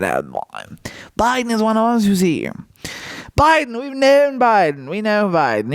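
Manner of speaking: scandalized crowd member. Retold or imitated. Room rebuking a farmer for questioning Biden, mock outrage. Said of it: "the whole room is taken aback".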